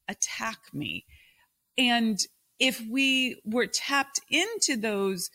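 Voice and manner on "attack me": soft whisper. Retold or imitated. Soothing her inner critic, whispered. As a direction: whisper it gently, almost no voice. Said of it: "tell this monster voice".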